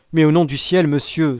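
high, loud plea; desperate cry. A narrator's reading. Unhappy young prisoner appealing to his judge, crying out. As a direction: cry out imploringly. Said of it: "s'écria le malheureux jeune homme".

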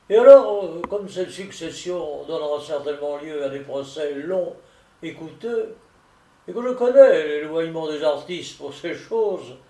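lightly voiced solicitor, loud opening; persuasive solicitor. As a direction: make the pitch with a touch of insistence. Narrator voices solicitor making his offer. (solliciteur persuasif, légèrement joué)

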